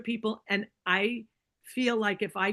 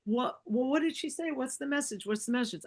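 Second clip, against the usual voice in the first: urgent repeated questions, higher then settling; eager questioning; 4 semitones higher than usual. Retold or imitated. Sister begging to hear the message, eager. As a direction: press for the answer in a hushed rush.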